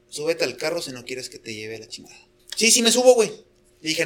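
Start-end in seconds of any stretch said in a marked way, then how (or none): 0.1-2.2 threat in his ear. Retold or imitated. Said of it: "así en el oído me dice".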